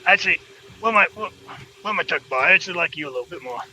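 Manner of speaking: gangster New Yorker. Acted. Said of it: "sounds a little gangster New Yorkie".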